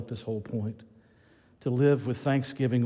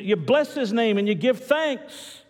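raised, emphatic preacher's pitch; fervent preaching; 8 semitones higher, 4 dB louder than usual. Real, not acted. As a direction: press each verse phrase home.

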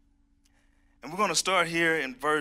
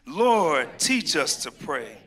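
with conviction; 7 dB louder, much slower than usual. Shown as a demonstration. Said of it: "One more time".

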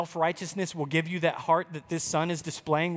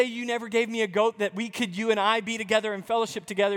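quick, brighter what-he-didn't-say version; lightly voiced son wanting his father; a touch of warmth in the quote; hypothetical loving son; much faster than usual. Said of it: "He didn't say".

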